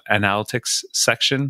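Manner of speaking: analytics said with a French accent; French-accented analytics section. Shown as a demonstration. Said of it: "I'm gonna say this with a very French accent".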